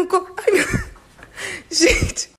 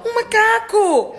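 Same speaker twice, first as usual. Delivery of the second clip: retold alarm; 8 semitones higher, slower than usual. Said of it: "Aí eu falei".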